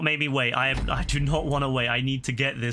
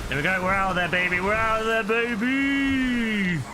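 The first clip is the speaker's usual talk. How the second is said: triumphant; 6 semitones higher, slower than usual. Real, not acted. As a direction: celebrate the escape, building up. Escapes and celebrates.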